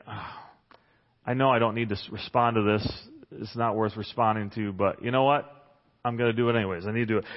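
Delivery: low, exasperated inner monologue; reluctant grumble. Acted. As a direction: talk yourself grudgingly into answering. Acting out reluctant inner reply.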